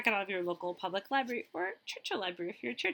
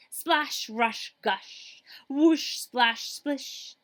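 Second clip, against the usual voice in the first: louder, higher playful splash words; playful splashes; 4 semitones higher, 6 dB louder, much slower than usual. Acted. Librarian acting out water sounds for kids.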